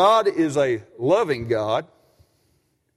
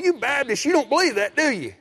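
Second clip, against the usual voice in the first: mock demeaning jab; 7 semitones higher than usual. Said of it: "he called me and said".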